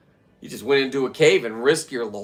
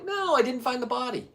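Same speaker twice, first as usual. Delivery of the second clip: high exasperated denial; 12 semitones higher than usual. Retold or imitated. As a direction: stress NO, pitched much higher and falling. Retold denial, high pitch.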